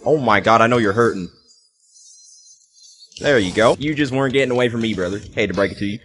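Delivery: easygoing Southern-tinged trash talk; Southern accent. Real, not acted. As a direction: slip lightly into a Southern accent. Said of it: "I turned Southern when I play Fortnite".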